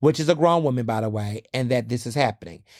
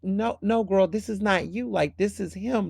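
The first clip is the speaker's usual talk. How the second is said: higher, softer, pleading correction; gently insistent; 5 semitones higher, 3 dB quieter than usual. Retold or imitated. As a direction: gently set her straight. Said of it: "Jessica's wife's like".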